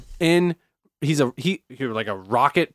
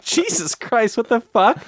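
mock shocked outburst; 7 semitones higher, slower than usual. Coworker hearing the metal track, mock shocked outburst. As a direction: act out a coworker recoiling from harsh music. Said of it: "she was like".

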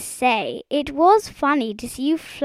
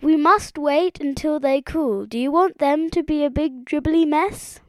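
high-pitched bossy reprimand; scolding frog; 7 semitones higher than usual. Acted. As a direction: lecture her as a fussy expert.

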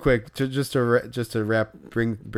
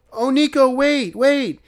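high urgent call after a car; imitating a kid yelling for the player to wait; 13 semitones higher, 5 dB louder, slower than usual. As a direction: shout after him, high and pleading. Kid calling out to departing player.

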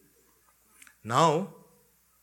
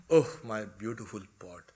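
mock weeping; 3 semitones higher, 6 dB louder than usual. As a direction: overplay grief for a broken pot. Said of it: "And he kept on weeping".

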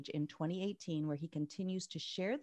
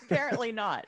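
laughing; 3 semitones higher, 5 dB louder, faster than usual. Real, not acted. Laughing at Dan's taffy confession.

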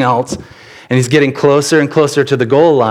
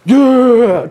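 much higher, louder happy "yeah"; delighted toddler; 11 semitones higher, 3 dB louder than usual. Retold or imitated. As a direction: cheer along like a tiny kid. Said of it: "And then he goes".

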